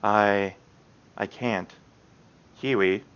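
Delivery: barely getting the words out between breaths; breathless Yuri. Acted.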